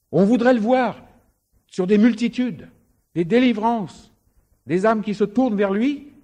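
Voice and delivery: high, loud preacher's call; fervent preaching. Acted. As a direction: preach it out with fervour. Preaching climax, raised voice.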